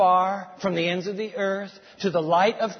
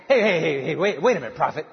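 laughing protest; 3 semitones lower, faster than usual. Acted. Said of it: "Hezekiah's thinking".

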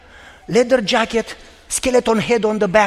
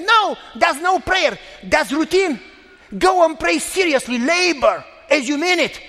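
raised, slowed rebuke, higher; stern shout; 6 semitones higher, slower than usual. Retold or imitated. Pastor scolding the woman for routine prayer, shouting.

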